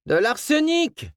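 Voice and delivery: réponse rauque et lente, aiguë; voix enrouée. A narrator's reading. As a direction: lancer une réplique sarcastique d'une voix cassée. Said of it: "enrouée par les trop nombreuses cigarettes". (voix enrouée par la cigarette)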